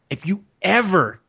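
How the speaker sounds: imitating a mom's warning, with heavy pauses; lightly voiced scolding mom, stressed and deliberate; stern mother. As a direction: lay down the law like a parent, pitch lifting at the end. Mother scolding him, acted out.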